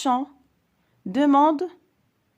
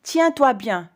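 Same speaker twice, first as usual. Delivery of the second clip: commanding orders; 2 semitones higher, 4 dB louder than usual. Shown as a demonstration. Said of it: "Ce sont des ordres".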